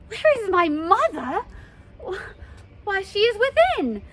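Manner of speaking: indignant. Acted. Juliet and nurse bicker.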